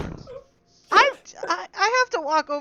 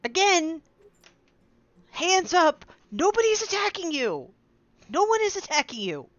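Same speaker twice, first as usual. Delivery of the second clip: mild raised-voice call, pitched up; shout at someone; 3 semitones higher than usual. Acted. Player's character tells the stranger nobody is attacking, mild shout. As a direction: call it out firmly, only half shouting. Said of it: "you just shout this at her".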